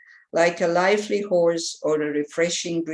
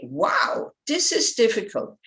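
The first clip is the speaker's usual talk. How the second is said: upbeat wow, eager to take it on; enthusiastic; 3 semitones higher than usual. Shown as a demonstration. Teacher to students, showing the encouraging way: upbeat. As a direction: say it like a challenge you welcome. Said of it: "it gives you the enthusiasm to continue".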